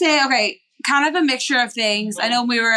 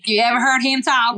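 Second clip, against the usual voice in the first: playful imitation of a Southern father's drawl; imitated Southern drawl. Sister jumping in to mimic their dad, thick Southern drawl. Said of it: "dad has a really thick southern drawl".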